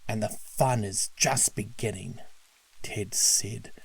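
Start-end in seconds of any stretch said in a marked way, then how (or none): 0.1-2.2 gloating villain; malicious grin. Acted. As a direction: sneer with a grin. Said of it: "grinning maliciously".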